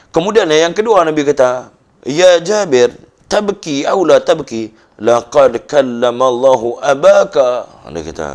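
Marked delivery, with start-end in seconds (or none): 2.0-7.7 slow, raised voice calling to Jabir; Prophet's solemn call. Acted. Prophet voiced, higher and louder. (Nabi menyeru Jabir dengan suara tinggi dan perlahan)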